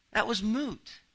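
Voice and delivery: preacher pressing a point with energy; emphatic point. Real, not acted. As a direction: drive the point home.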